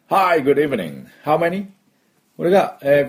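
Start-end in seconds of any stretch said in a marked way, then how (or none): 0.1-1.6 bright-pitched, friendly demo welcome; friendly server greeting. Shown as a demonstration. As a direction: welcome diners like friends, lifting the final question. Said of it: "こんな感じです".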